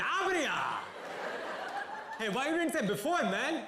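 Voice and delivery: loud, high South Indian policeman, exasperated; caricature South Indian accent. Retold or imitated. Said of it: "in a racist South Indian accent".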